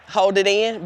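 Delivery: a small real laugh through held-back tears; teary laugh. Real, not acted. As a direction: laugh it off to keep from crying.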